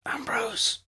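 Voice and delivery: whispered name, unvoiced. A narrator's reading. Dying Granville whispers to Ambrose, unvoiced. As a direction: breathe his name faintly. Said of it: "Granville whispered".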